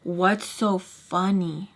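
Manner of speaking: slow, drawn-out annoyed demand; triggered, irritated. Retold or imitated. Woman to the two laughing at her, irritated. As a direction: space the words out in irritation. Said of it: "getting triggered so much by the laughing".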